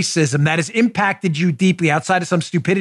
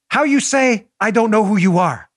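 mock Spanish accent; 4 semitones higher than usual. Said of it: "probably in a Spanish accent".

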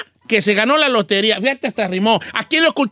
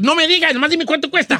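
impatient; 4 semitones higher than usual. Acted. Acted impatient reply to Chino.

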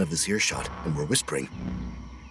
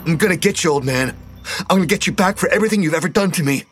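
put-on high, fast, frantic snarl of a wild kid; feral snarling threat; 12 semitones higher, 3 dB louder, faster than usual. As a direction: spit it out like a rabid animal. Feral boy threatens Hogan.

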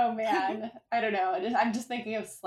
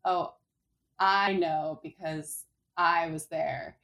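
slow, stressed, knowing delivery; emphasizing one word; slower than usual. Shown as a demonstration. Explaining English emphasis to co-hosts, slow stressed. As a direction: lean on the key word to sound like an insider. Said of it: "how we might emphasize one part".

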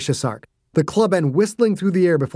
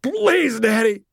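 put-on much higher, childlike begging; stammering plea; 8 semitones higher, slower than usual. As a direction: beg like a scared boy. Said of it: "Dossie stammered".

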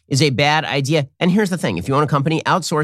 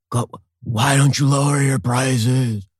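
mock Biden plea; 3 semitones lower, much slower than usual. Mocking Biden pleading with sun.

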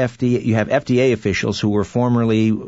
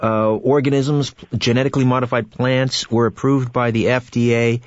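sarcastic. Real, not acted. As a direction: ask it with a sarcastic edge. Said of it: "I asked sarcastically".

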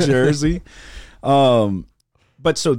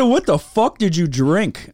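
incredulous; 4 semitones higher, slower than usual. Retold or imitated. Incredulous reaction retold.

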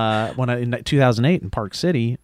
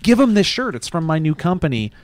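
pushy stranger; 5 semitones higher than usual. Retold or imitated. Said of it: "He's like".

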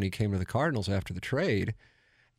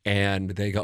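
normal talking voice

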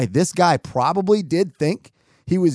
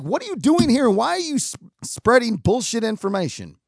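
higher, indignant questioning; incredulous challenge; 6 semitones higher than usual. Retold or imitated. Judging the plaid-shirt man for rumors, incredulous. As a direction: challenge him in disbelief, acted out. Acting out his judgment of man.

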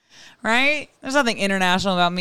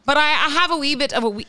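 raised-pitch mock Irish accent; put-on Irish accent; 5 semitones higher than usual. Podcaster reading a listener's email, put-on Irish accent. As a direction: lean into a playful Irish lilt. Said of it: "So you just speak an Irish accent".

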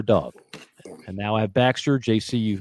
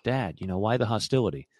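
soft, wounded plea from a dog; a hint of a hurt pet, quietly puzzled; lightly voiced sensitive dog; 4 dB quieter than usual. Sensitive dog questioning his yelling owner, lightly voiced hurt. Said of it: "he's a very sensitive dog".

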